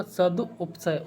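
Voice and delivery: "सदुपसय" very slow, split सदु, उपसय; slow corrected form. Shown as a demonstration. Teacher working out the word, slow syllables. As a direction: draw "सदुपसय" out in parts. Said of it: "नहीं होगा".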